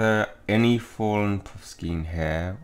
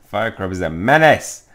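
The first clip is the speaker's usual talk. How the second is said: louder mock declaration; sarcastic accusation; 9 dB louder than usual. Student mock-accusing the Firecrab to Filch, sarcastic. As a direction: declare it with put-on alarm. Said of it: "I hope he can hear the sarcasm".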